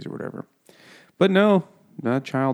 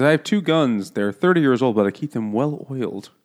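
mock Tom; 3 semitones higher than usual. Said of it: "He says".

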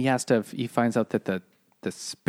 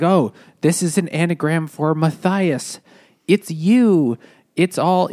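higher, louder mock revelation; mock discovery; 5 semitones higher, 4 dB louder than usual. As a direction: announce the discovery with rising excitement. Acts out anagram discovery.

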